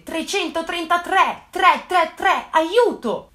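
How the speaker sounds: frantic, drawn-out mock plea; panicked plea.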